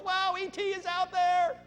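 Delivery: high, loud burst of retold joy; excited discovery. Scientist hearing from space, excited. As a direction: gasp it out like you just found aliens. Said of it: "She gets real excited".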